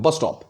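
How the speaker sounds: "बस स्टॉप" with equal weight on both words; both words stressed. Shown as a demonstration. Teacher repeating the spondee example, both parts of "बस स्टॉप" stressed. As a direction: give each half of "बस स्टॉप" force. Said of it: "दोनों side में मैं force दे रहा हूँ".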